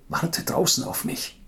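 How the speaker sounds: urgent whisper into her ear; cupped hand whisper. Acted. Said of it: "flüsterte ihr ins Ohr". (ins Ohr geflüstert)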